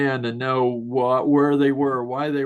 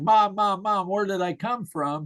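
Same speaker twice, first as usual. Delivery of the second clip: mock yell; 5 semitones higher than usual. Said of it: "came running in the house yelling".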